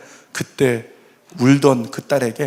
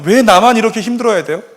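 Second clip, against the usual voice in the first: retold lament; 6 semitones higher, 5 dB louder than usual. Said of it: "그가 뭐라고 고백하냐면".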